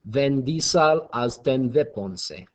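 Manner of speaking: slow fake German accent with v for w; mock German accent. Shown as a demonstration. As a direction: say it slowly in an amateur German accent. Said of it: "pronounce that phrase in a German accent".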